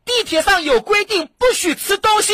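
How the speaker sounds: mother pointing the moral. Retold or imitated. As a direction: mum lecturing with a hidden dig at the snacker. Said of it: "有一个妈妈啊". (妈妈借题讽刺，声音提高)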